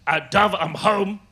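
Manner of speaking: mock shout upstairs. Husband home from a night out calling up to wife, mock shout. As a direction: imitate calling up through the house. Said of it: "shouted up".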